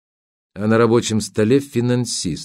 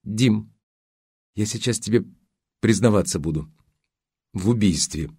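plaintive drawl. A narrator's reading. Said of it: "жалобно протянула".

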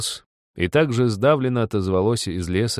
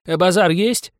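higher call; 11 semitones higher, 5 dB louder than usual. A narrator's reading. Passenger calling from train.

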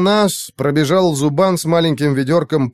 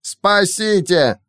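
high, very slow creature wail; panicked plea; 7 semitones higher, much slower than usual. Acted. Captured creature wails for rescue, panicked. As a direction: drag out the cry for help. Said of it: "заорал Каин".

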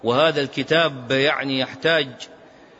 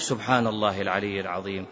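awed murmur; 7 semitones lower, 6 dB quieter than usual. Retold or imitated. Awed aside in quoted speech.

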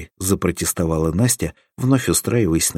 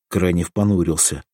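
plain reading voice

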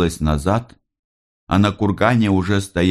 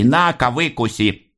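plain reading voice

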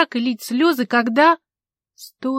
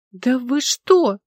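slow, loud bristling retort; loud indignant retort; 3 semitones higher, 6 dB louder, much slower than usual. Acted. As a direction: bristle at the accusation. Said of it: "тут же ощетинилась она".

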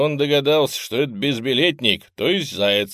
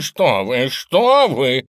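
rising, louder panicked protest; scared cat-man pleading with a robot; frightened stammer; 5 semitones higher, 8 dB louder, much slower than usual. A narrator's reading. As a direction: blurt it out in fright. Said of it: "заикаясь от испуга, затараторил Вася".

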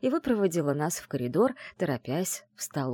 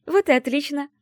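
higher, louder joyful cry; glad exclamation; 10 semitones higher, 6 dB louder than usual. Acted. Friend delighted at the narrator's agreement, joyful exclamation. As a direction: cheer it out happily. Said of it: "радостно воскликнула она".

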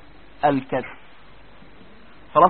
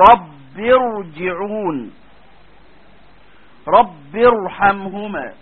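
very slow, drawn-out recitation; slow, unhurried tajweed reading; Quranic recitation; much slower than usual. Acted. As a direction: recite each word slowly like a Quran reciter. Quotes verses as examples.

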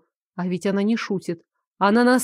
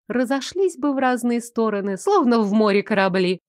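cold villainess; 2 semitones higher than usual. Acted. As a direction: explain her plan with cold contempt. Elsa's villain voice held. (голос холодной злодейки)

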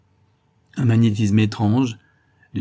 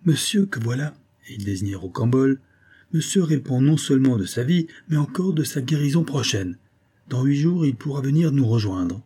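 put-on reassuring older nobleman, pitched higher; a soothing aristocrat with a lift in the voice; lightly voiced suave viscount; 5 semitones higher than usual. Viscount soothing his son's frightened lover, higher and suave.

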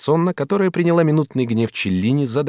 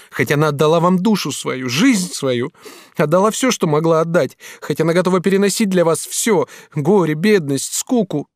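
tearful reproach; 7 semitones higher, 4 dB louder than usual. Acted. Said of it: "заливаясь слезами".

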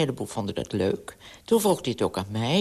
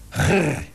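dog growl; 3 dB louder than usual. Acted. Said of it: "zei Mars".

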